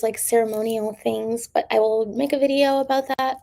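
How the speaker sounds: strained, tired throat; worn-out voice from long talking; hoarse voice. Real, not acted. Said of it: "talking for this long has really messed my throat".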